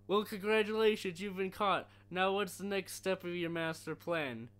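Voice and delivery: mock-congratulate him loudly; annoying CIA guy voice. CIA agent mocking captured Bane, high and loud. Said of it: "the C I A guy has the most annoying fucking voice ever".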